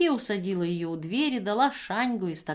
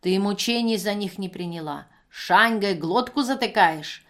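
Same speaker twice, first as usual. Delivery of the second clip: put-on drunken scolding; 5 dB louder than usual. Пьяная женщина бранится.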